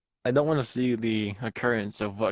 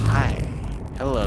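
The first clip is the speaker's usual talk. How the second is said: high, louder, nervous hello; nervous greeting; 3 semitones higher, 5 dB louder, slower than usual. Real, not acted. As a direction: greet the monster warily. Greeting animatronic in vent nervously.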